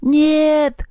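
high, drawn-out cry of protest; horrified scream. A narrator's reading. Masha waking to see her friend captive, horrified cry. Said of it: "раздался ужасающий вопль".

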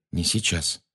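softly muttered, brief aside; quiet mutter. A narrator's reading. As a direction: drop the volume, under your breath. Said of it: "тихо пробормотал Гарри". (тихо, вполголоса)

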